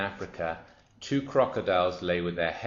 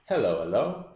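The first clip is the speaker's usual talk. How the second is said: loud, swooping storybook hello; lightly voiced hippo calling out; greeting hippopotamus; 3 semitones higher, 7 dB louder than usual. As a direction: hail the crocodile with a big double hello.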